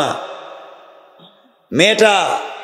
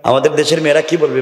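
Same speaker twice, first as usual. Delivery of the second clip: usual speaking voice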